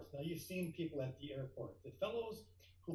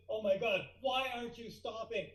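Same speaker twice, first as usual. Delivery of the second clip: panicked; 7 semitones higher than usual. Retold or imitated. Marshal panics at the speeding jet, high and frantic. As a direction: panic as the jet keeps coming. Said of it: "I had a bit of panic".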